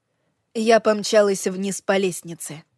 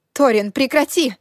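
high, loud frightened cry; shouting; 5 semitones higher, 6 dB louder than usual. A narrator's reading. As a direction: scream for him to stop. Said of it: "закричала я". (крик)

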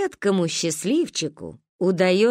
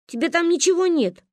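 disappointed drawl; 10 semitones higher than usual. Acted. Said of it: "разочарованно протянули мы".

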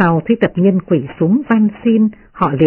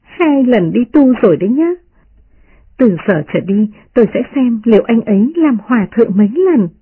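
much higher, playful mocking girl; teasing young lady; 5 semitones higher than usual. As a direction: tease them with a laughing lilt. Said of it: "bĩu môi cười nói".

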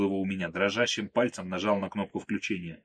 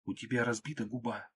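softer hushed plea; muffled; 2 semitones higher, 7 dB quieter than usual. Acted. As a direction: hold the voice down as you beg him to stop. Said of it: "приглушённо произнесла Марго".

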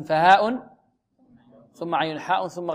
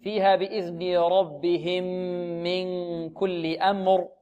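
slow, measured tajweed recitation; careful teacher's recitation; Quranic recitation; slower than usual. Shown as a demonstration. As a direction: recite with drawn-out nasal n.

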